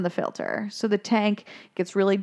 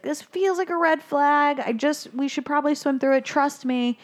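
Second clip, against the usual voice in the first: Dory voice; 5 semitones higher than usual. Retold or imitated. Dory warns Marlin.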